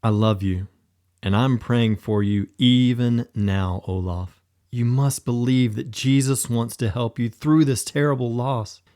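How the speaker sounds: kind whisper. Acted. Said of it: "Thor whispered kindly".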